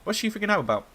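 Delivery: baffled question; confused, wondering out loud. Real, not acted.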